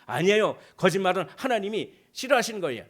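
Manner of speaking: high, loud protest; loud refusal. Acted. Believer refusing Satan's urging, high and loud. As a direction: shout down the lie.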